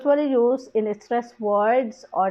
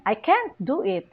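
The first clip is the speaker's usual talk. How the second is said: "can't" raised, then falling; stress shift demo. Shown as a demonstration. Teacher showing how stress changes meaning, stress on "can't". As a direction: lean on "can't" in "I can't do it". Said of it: "nag-iiba siya ng meaning".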